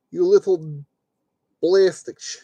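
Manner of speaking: lightly put-on Russian accent; a hint of playful Russian accent; slight Russian accent. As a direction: scold it in a mild mock-Russian accent. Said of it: "went with a slightly Russian accent".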